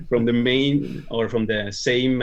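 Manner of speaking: correcting "main" and "same" through a laugh; laughing self-correction. Real, not acted. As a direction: laugh while fixing the word "same". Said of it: "not from the Spain".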